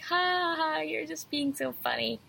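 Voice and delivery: imitating friends laughing it off; mock laughing dismissal. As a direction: brush it off with a put-on laugh. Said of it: "They're like".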